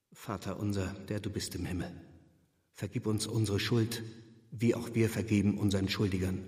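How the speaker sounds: soft, murmured prayer to himself; a lone man's whispered-soft plea for mercy; hushed prayer. Acted. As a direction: pray quietly, almost under the breath. Reverend reciting the Lord's Prayer.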